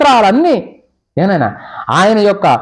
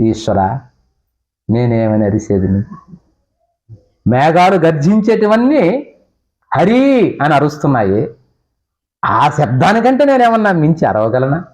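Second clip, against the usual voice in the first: humble prayer; 4 semitones lower than usual. Acted.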